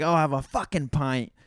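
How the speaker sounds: testy order, stress on fucking; mildly pissed off. Acted. Pissed-off rope back at the bar, mildly irritated order, stress on fucking. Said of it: "the fucking rope gets pissed off".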